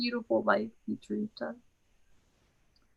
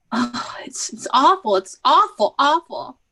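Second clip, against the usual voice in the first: distraught; 4 dB louder than usual. Acted. Irina breaks down in despair.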